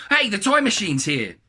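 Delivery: high, loud, drawn-out call; excited announcement. A narrator's reading. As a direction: announce the arrival to the whole house. Dad announces long-awaited delivery.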